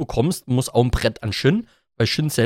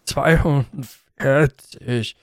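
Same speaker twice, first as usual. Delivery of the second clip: exhausted drawl; much slower than usual. Pretend. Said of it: "Meine Kraft schwindet langsam".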